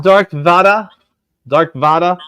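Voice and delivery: name Hispanicized in a light mock accent; put-on Spanish accent, relishing the name; playful Spanish accent. Host showing comics to viewers, playful Spanish accent. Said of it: "I'm gonna say things in Spanish dialect".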